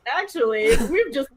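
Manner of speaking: slow, smiling, laughing delivery; tired smile. Acted. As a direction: break the news with a weary grin. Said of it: "like a very tired smile".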